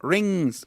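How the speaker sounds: "Rings" said cleanly in English; model pronunciation. Shown as a demonstration. Teacher drills students on one word: "Rings" in English. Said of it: "Recuerden, rings".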